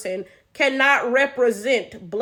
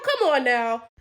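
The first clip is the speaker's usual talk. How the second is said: usual speaking voice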